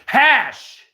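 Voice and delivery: high, loud one-word burst; big, high-pitched acted cheer; enthusiastic exclamation. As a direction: blurt it out loud with mock generosity. Mimics Canadians generous with hash.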